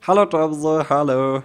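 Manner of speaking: loud bright hello; cheerful greeting. Real, not acted. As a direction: call out a happy welcome. Greeting a friend joining. (fröhlich laut begrüßend)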